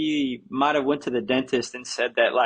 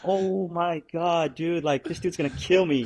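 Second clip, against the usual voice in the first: slow, higher, hushed frightened voice; mock panic; 4 semitones higher than usual. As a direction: act out the terror of being trapped in the car. Retelling his fear inside car.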